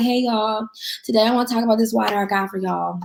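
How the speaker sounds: listless, unenthusiastic, flat, low-energy monotone. Example of going live to sell water, low energy and unenthusiastic. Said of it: "you sound like you don't want the water that you sell".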